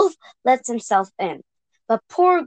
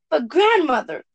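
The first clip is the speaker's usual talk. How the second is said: put-on little girl voice; 5 semitones higher, 3 dB louder than usual. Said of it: "said Little Red Riding Hood".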